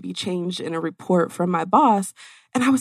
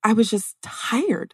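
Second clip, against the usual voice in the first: whispered exhaustion; 3 semitones higher, slower than usual. Real, not acted. Exhaustion after years of travel.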